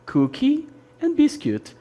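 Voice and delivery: Cookie and biscuit sung out high and clear; modelling the words. Shown as a demonstration. Teacher modelling Cookie and biscuit for Brazilian students, high and clear. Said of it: "Nós temos aí cookie and biscuit".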